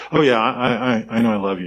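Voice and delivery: mildly dismissive mock reassurance; an offhand, unconvinced declaration of love; grudging, dutiful tone. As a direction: say it as a half-hearted obligation. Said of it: "with that tone".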